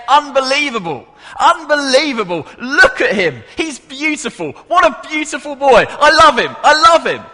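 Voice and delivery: put-on high, loud, gushing South African accent; overjoyed South African dad. Preacher imitates Bert raving about his gold-medal son, overjoyed South African accent. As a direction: burst out with uncontained South African fatherly pride. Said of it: "in his South African accent".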